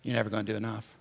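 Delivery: low, soft, gentle admonishment; loving hard truth. Real, not acted. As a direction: break it to them gently, voice dropped. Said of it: "tell you something in love".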